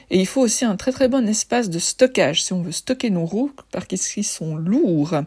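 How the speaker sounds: slight lisp on the s sounds. Real, not acted. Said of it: "Je zozote un peu".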